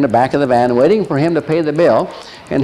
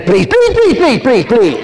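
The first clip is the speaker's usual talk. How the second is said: very high, loud mock pleading; mocking woman; 10 semitones higher, 4 dB louder than usual. Woman from the car, mock shrill pleading. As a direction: whine please over and over. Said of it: "the woman gets out and she says".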